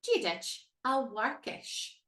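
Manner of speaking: slow, careful "Gia dich a Warkish", W for the M H; Irish greeting demo. Shown as a demonstration. Teacher models the greeting slowly for students. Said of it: "To address someone".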